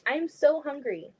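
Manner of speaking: normal talking voice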